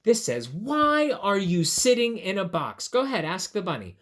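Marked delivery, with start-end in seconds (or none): 0.5-2.9 wondering, singsong story question; puzzled question. Acted. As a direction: ask the bunny, stressing a high WHY. Reads the question to ask bunny.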